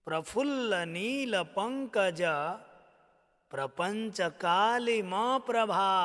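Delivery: measured, rhythmic Sanskrit recitation; steady devotional chant-like reading; stotra recitation. Shown as a demonstration. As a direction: recite the verse line by line for students. Teacher recites the verse again.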